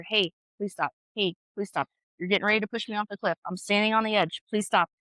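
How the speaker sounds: imitating patient, controlled pleading; forced calm. Mom trying to stay calm with her kids, forced calm. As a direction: repeat it evenly, holding mom rage back. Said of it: "trying to be calm".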